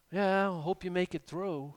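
sigh, then offhand well-wishing; half-hearted, uncaring send-off after a sigh; mock indifference. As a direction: imitate someone distant who can't be bothered. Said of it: "He's not indifferent".

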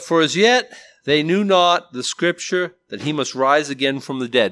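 scripture reading. Acted. Preacher reads the verse to the men, solemn. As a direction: read the verse out with weight.

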